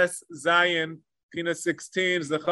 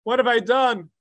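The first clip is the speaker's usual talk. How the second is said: lament of God; 3 semitones higher than usual. Retold or imitated. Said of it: "Hashem cries, Omer, and screams out".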